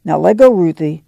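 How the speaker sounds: a firm, fierce threat; fierce warning. Acted. Ma warning Winfield off whipping Ruthie, fierce. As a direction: shut the boy down hard. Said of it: "Ma said fiercely".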